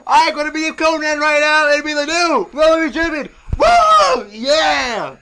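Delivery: high, loud wrestler promo rant; Ric Flair. Acted. Flair going off before a match, ranting wrestler impression. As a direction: holler it like a wrestler, whooping. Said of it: "Ric Flair is going off like".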